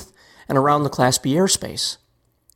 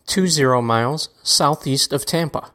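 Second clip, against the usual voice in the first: pilot radio call. Shown as a demonstration. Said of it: "state your position more generally like this".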